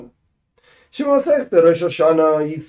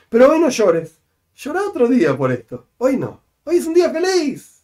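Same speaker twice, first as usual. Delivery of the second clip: coaxing Nehemia; 6 semitones higher than usual. Acted. Nehemia telling people not to cry.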